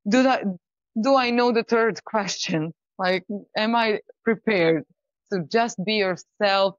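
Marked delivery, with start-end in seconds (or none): 0.1-4.8 anxious. Acted. Acting nervous pitcher's thoughts.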